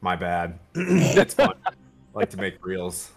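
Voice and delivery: ordinary talk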